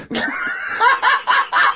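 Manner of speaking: high, breathy shrieking laugh. Real, not acted. Teller cracks up at the singles party memory. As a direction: let out a big laughing shriek.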